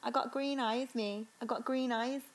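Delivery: brief, tentative Birmingham impression; Birmingham accent. Shown as a demonstration. Co-host showing off her one phrase, Birmingham accent. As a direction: try a catchphrase in a Birmingham accent. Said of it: "I can only do Birmingham".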